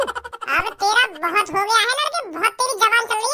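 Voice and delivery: slow, low warning. Acted. Kallu warns the insulting boy, slow low threat.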